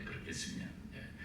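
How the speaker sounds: 그렇게 승리하면 돼 whispered with a laugh; 승리하면 breathed as a soft echo. Real, not acted. Repeated under breath. (웃으며 속삭이는 승리하면 돼)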